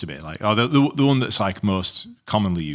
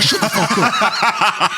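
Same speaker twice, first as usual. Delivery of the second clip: mock angry retort; 12 semitones higher, 4 dB louder, much slower than usual. Retelling wife's angry reaction.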